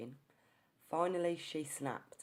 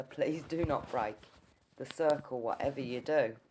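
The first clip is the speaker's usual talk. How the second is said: louder, emphatic request, each phrase set apart; firm retold plea; 6 dB louder than usual. Investigator asking her not to break the circle, firm and loud. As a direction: press the instruction home loudly.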